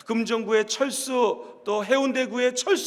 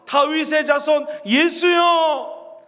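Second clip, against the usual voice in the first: slow, drawn-out cry, louder; 3 dB louder, much slower than usual. Acted. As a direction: stretch out the plea and call it out. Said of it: "소리를 더 크게 질러서".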